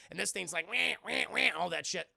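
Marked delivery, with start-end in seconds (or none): 0.7-1.6 high, repeated mock wail; crying noise. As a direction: imitate a wailing cry in bursts. Imitates baby crying.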